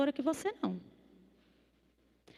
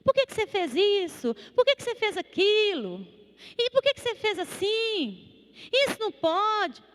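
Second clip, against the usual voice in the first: hammed-up lecturing, raised pitch; mock scolding sermon; 7 semitones higher than usual. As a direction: scold like a stern preacher. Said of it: "começar com um sermão".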